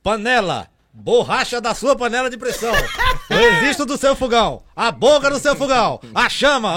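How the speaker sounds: loud loudspeaker vendor call; street vendor announcement. Retold or imitated. Vendor on the microphone listing stove parts, loud announcer call. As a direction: rattle off the wares like a sound car. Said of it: "Aí falou assim, ó".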